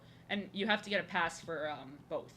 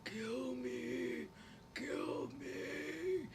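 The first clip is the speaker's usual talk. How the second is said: 1 Patricia the dog begging; 4 semitones higher, 9 dB quieter, much slower than usual. Retold or imitated. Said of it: "Patricia's like".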